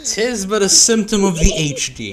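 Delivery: mock knight line. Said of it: "mock quote of Monty Python line".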